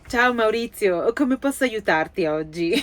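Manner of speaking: slow, chirpy assistant greeting; customer service voice. Pretend. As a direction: play the helpful AI assistant. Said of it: "devo fare più la voce da Gigi".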